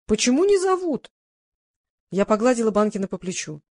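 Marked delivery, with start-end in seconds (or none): 0.1-1.1 high, fretful complaint; nervous. A narrator's reading. Old singer upset nobody calls him, nervous. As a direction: ask anxiously, pitched up. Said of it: "занервничал Иван Николаевич".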